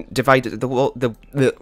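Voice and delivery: halting, repeating little words; flustered stumbling. Real, not acted. Player too panicked to speak properly, flustered stumbling. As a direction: lose the thread and stumble. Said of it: "can't even speak, I'm in so much of a panic".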